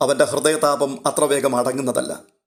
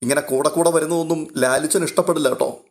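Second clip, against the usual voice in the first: ordinary delivery, nothing marked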